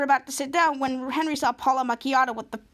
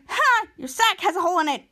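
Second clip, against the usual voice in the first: mocking kid taunt; 5 semitones higher, 4 dB louder than usual. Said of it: "And Henry's like".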